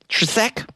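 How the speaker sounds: TRESEK high and questioning, in two syllables; unsure pronunciation attempt. Real, not acted. Host stumped by a patron's surname, doubtful: "Tresek" in two syllables. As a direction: puzzle out "Tresek" as tre-SEK, rising. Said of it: "I can't say this last name".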